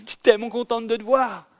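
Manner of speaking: high, eager rush of happiness after running; imitating a singer's excited reunion line; breathless joy. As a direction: burst out with delight at seeing him. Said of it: "en lui disant, Tamino".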